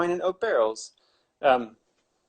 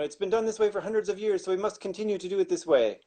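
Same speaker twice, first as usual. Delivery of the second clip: higher-pitched mock traditionalist voice; stuffy traditionalist; 5 semitones higher than usual. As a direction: lightly voice a tradition-bound winemaker, pitched up. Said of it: "There's traditionalists. They're like".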